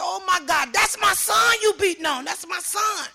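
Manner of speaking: high-pitched re-enacted cry of alarm; horrified outcry. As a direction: cry out as a mother hearing her son beaten.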